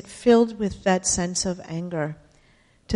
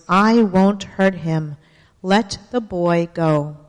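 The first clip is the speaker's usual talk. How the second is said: loud, clear voice; 4 dB louder, much slower than usual. Acted. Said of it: "in a loud, clear voice".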